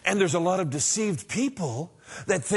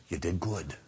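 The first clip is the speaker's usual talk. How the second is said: low, soft, gently consoling; a touch of fatherly approval, pitched low; quiet, indulgent pat on the back; kindly welcome; 10 semitones lower, 5 dB quieter than usual. Acted. God's imagined kindly welcome.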